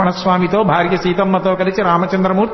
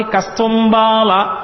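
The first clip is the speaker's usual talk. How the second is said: slow drawn-out answer; much slower than usual. Acted. Krishna answers gopi slowly.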